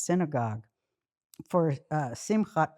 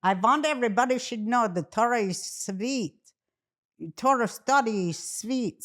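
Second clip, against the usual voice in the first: hammed-up old-country Jewish accent, pitched higher; badly faked immigrant grandmother accent; horrible grandma accent; 4 semitones higher than usual. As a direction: imitate grandma's accent, preaching sweetly. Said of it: "I'm doing a horrible accent".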